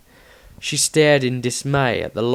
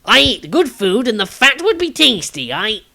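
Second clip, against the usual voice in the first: higher, louder flustered protest; spluttering; 11 semitones higher, 7 dB louder than usual. A narrator's reading. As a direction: splutter in wounded pride. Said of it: "Tobias spluttered".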